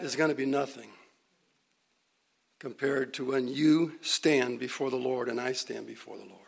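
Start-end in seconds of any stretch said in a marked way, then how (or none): 2.6-6.4 hushed, unvoiced whisper, softer throughout. Preacher telling the brethren about facing the Lord, whispered. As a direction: draw them in with a whisper about judgment.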